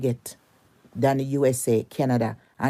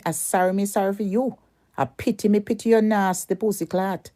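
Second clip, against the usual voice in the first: higher, sing-song sneering pity; mocking pity; 5 semitones higher than usual. Real, not acted. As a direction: pity her with open contempt.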